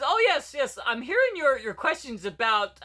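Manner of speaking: lightly voiced mock panelist, starting high and easing down; a hint of a put-on politely answering speaker. Guy answering her questions about equality, lightly mocked. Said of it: "the guy says".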